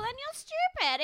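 high, slow disbelief; exasperated. Real, not acted. Scoffing at the contestant, high and slow. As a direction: drag it out in disbelief.

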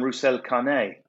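Roussel Canet said with a Spanish accent. Shown as a demonstration. Gigs in Barcelona, name in Spanish accent. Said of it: "In Spain, I'm".

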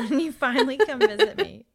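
laughing through the words; teasing with a laugh. Real, not acted. Friend teases about a visit, laughing.

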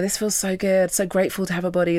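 lightly put-on American runner; a hint of an American accent as you give thanks; mock-grateful American runner; running American voice. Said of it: "my, like, running American voice".

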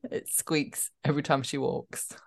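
trying to finish the line while laughing; laughing while reading. Real, not acted. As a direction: crack up as you read it out. Cracks up reading the article.

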